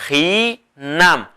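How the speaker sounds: hinam, drawn out with a falling end; teacher models hinam slowly for repeating; slow Kaqchikel word. Shown as a demonstration. Teacher models the word for the class, slow and clear. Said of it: "Todos, por favor".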